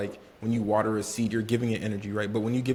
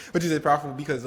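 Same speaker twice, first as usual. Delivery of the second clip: laughing; 4 semitones higher, faster than usual. Real, not acted. Cohost laughing while praising.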